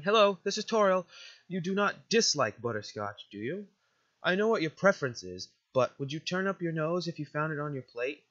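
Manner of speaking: put-on gentle guardian sending a child off; lightly voiced, formal motherly figure; motherly game guardian. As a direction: speak as a caring, proper guardian.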